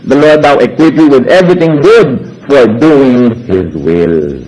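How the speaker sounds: slow, measured verse reading; "will" dropped very low at the end; scripture reading. Acted. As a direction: read it like a Bible verse. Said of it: "Sabi sa Hebrews thirteen twenty-one".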